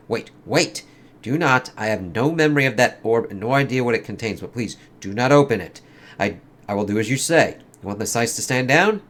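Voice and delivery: lightly acted comic dialogue, in character; comic characters voiced. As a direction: read it like a dramatic comic scene.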